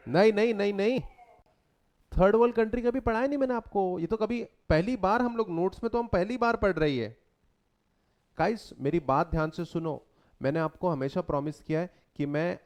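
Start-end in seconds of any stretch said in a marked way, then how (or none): 0.1-7.2 sarcastic, fast and higher-pitched protest; mock denial. Teacher feigning agreement with students about third world countries, sarcastic denial. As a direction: play along in exaggerated, hurried denial.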